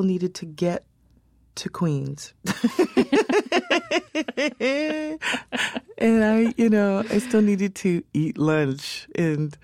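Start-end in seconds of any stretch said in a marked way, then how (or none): 2.4-5.9 laughing. Real, not acted. Laughs about getting to Queens. 6.0-9.6 laughing. Real, not acted. Laughs about getting to Queens.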